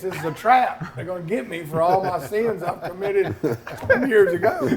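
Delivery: mock paranoia through laughter; laughing. Joking to Jim in the car, laughing mock worry. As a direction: laugh while spinning the trap theory. Retelling his fear of a trap.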